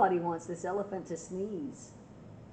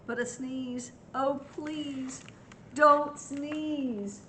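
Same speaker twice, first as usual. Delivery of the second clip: pleading, climbing higher; rising plea; 5 semitones higher, much slower than usual. A narrator's reading. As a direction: build the plea upward.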